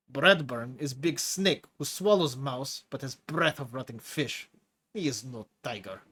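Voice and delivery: lightly voiced hulking prisoner with a foreign accent; a menacing brute enjoying scaring the new chief; Tigra's heavy accent. Tigra mocks Bradburn.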